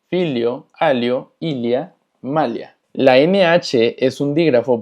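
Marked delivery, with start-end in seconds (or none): 0.1-2.8 filio, alio, ilia, malia with palatal li. Shown as a demonstration. Teacher recaps lh words, filio, alio, ilia, malia with ly. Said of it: "la L H es li".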